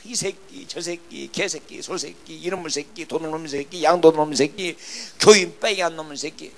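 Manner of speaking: imitated cursing. Preacher mimics pastors accusing him of stealing members, cursing. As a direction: reel off insults in mock abuse. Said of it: "욕도 어떻게 그렇게 잘하는지".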